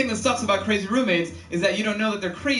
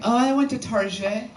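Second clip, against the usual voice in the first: higher, stuck-up French-style "Target"; French-style affectation; 4 semitones higher than usual. Retold or imitated. Stuck-up roommate back from shopping, affected French pronunciation. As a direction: put a French ending on Target, "tar-ZHAY". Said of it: "pronounce it in a French accent".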